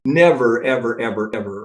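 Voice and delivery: NEVER punched loud, then ever fading; emphatic never. Shown as a demonstration. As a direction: hammer home the word Never. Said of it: "I emphasize this all the time".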